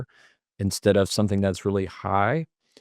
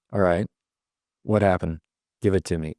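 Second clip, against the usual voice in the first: composed, even, with pauses between phrases; measured, settled questioning; in control. Shown as a demonstration. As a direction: take a breath, then ask steadily. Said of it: "take a breath, and then you're saying".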